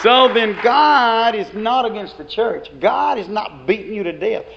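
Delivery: loud, slow, every word pressed; preaching shout. Real, not acted. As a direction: declare it to the whole church. Preacher proclaiming to congregation.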